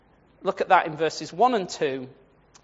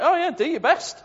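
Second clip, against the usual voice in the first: mocking dare; 5 semitones higher than usual. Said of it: "it's like he laughs at it".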